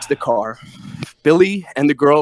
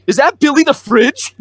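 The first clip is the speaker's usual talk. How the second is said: a bit higher, louder, surprised recognition; imitating bat guy; 9 semitones higher, 3 dB louder than usual.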